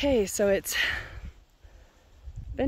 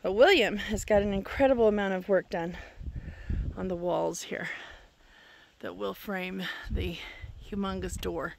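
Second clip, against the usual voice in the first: winded, pausing for air between phrases; short of breath. Real, not acted. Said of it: "apologize in advance for my being short of breath".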